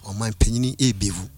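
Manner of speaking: measured, low voice relaying a divine message; retold still voice. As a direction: deliver a solemn message slowly, as heard. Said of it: "still voice".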